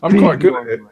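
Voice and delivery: jokey fake French accent; mock French accent. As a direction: put on a clumsy French accent. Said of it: "doesn't sound very French".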